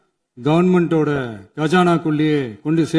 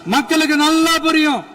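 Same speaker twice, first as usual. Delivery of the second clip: raised, ringing oratory; fiery political speech; 10 semitones higher than usual. Real, not acted. Legislator attacking opponents in the assembly, fiery oratory. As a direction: deliver it as forceful assembly rhetoric.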